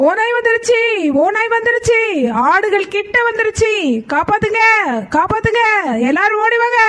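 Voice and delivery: high pleading call for help. Acted. Peter begs the villagers to come save the sheep, high pleading call. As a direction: plead to be believed, pitched high. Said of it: "Peter கத்துற சத்தம் கேக்குது".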